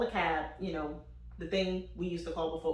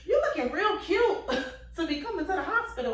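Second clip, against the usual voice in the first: higher, louder sassy tease with a laugh; sarcastic attitude; 10 semitones higher, 4 dB louder than usual. Retold or imitated. Mother mocking boyfriend's fresh outfit: high sassy tease. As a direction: throw sass at him.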